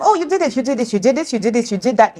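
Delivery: imitated nagging, tumbling out; mock telling-off. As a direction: pile up the accusations in mock scolding. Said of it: "you're telling them".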